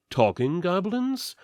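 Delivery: ordinary delivery, nothing marked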